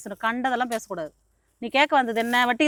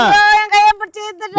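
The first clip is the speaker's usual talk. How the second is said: crying out in distress; 6 semitones higher than usual. Acted. Woman accuses lender of grabbing her.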